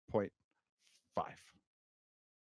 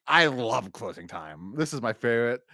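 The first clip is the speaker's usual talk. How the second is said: mocking imitation; 5 dB louder than usual. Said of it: "you will be like".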